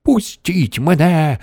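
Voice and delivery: drawn-out high cry; yelling. A narrator's reading. Wonka begging grandmother to let go, drawn-out yell. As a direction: cry it out high, stretching each word. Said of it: "репетував містер Вонка".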